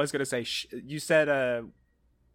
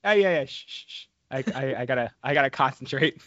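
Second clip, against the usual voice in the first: trying not to laugh. Real, not acted. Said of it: "Stop making me laugh".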